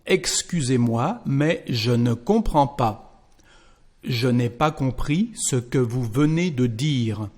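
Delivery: careful French model reading; French dialogue read aloud. Shown as a demonstration. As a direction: read the French lines clearly for learners.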